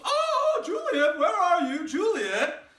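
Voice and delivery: high, loud sing-song call for Juliet; nurse calling out. Acted. Nurse shouting across the house for Juliet, high and loud. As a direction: holler for the girl at the top of your voice. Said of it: "just kinda goes".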